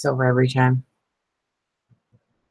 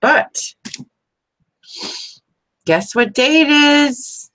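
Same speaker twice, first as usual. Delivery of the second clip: high, slow, teasing sing-song; excited teasing; 11 semitones higher, 4 dB louder, much slower than usual. Real, not acted. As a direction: stretch it out like a fun surprise. Teasing viewers with day announcement.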